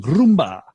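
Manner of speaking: "Rumba" with a trilled R at the start; short showy "Rumba", R rolled. Shown as a demonstration. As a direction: roll the tongue on the R of "Rumba". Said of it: "I can just roll my tongue".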